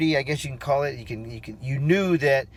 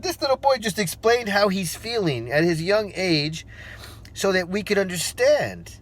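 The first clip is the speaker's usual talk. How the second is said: higher-pitched, mildly amazed; retold astonishment; 5 semitones higher than usual. Onlooker amazed by a young boy, mild retold astonishment. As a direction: marvel at it, pitched up. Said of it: "she was shocked just as much as I was".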